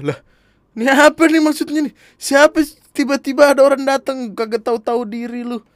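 high, loud retold outrage; indignant outburst. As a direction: protest in high-pitched, acted indignation. Retells outraged reaction to proposal news. (protes kesal bernada tinggi)

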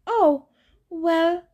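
high, put-on coy bride voice; Grover as coy bride. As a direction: play the nervous satyr faking a lady.

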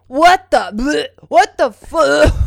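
loud, drawn-out retching yell; high mock yell of revulsion; imitating disgusted brother. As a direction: act out a grossed-out shout, gagging mid-phrase. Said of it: "then I just hear him go".

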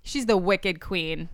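slow, drawn-out Boston accent. Shown as a demonstration. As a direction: lay on a bit of Boston accent. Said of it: "more of my Boston accent".

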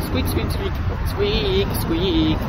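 尖声吱吱叫，像老鼠; 扮成老鼠在街上吱吱叫; rat squeaks. Pretend. Playing a rat on street.

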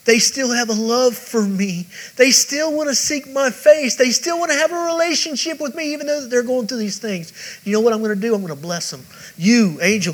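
put-on a proud father boasting about his children in heaven; heavenly Father bursting with pride, climbing to a big commanding call; God speaking to an angel. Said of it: "looking down and saying".

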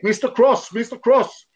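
high, loud yell across the pitch; shouted call. Retold or imitated. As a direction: yell for the ball from a teammate far off. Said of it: "sprang i en lucka och skrek".

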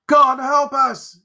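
high, loud, slow cry of dread; terrified outcry. A narrator's reading. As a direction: call on God in sheer terror. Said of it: "ejaculated Henry".

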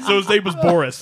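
breaking character giggling. Real, not acted. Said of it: "I can't keep a straight face".

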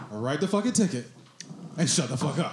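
mock-defiant command; demonstrated retort to cop. Shown as a demonstration. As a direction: re-enact a firm order to an officer. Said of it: "I said it to him like this".

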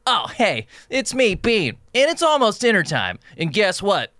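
high-pitched cartoon dog voice; Bean's original voice. Dog telling everyone it's almost dinner time, high put-on voice. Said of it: "The original voice was like".

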